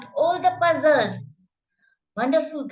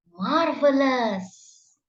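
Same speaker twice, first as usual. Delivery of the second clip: slow modelling; slower than usual. Shown as a demonstration. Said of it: "teacher modelling word slowly".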